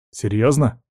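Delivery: understated doubtful question; suspicious. Acted. Friend doubting the pirate's bluff, suspicious. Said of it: "подозрительно спросил я".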